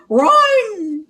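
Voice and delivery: panicked shout. Acted. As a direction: yell it while bolting. Fleeing the ghost.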